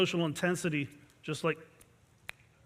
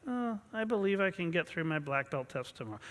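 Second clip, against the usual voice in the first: soft, half-hearted and unconvinced; weak affirmation; 2 semitones lower, 8 dB quieter than usual. Shown as a demonstration. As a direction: say it without any conviction. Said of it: "An affirmation would be saying".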